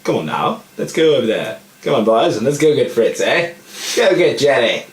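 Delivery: hammed-up officer calling his men to war; rallying the troops.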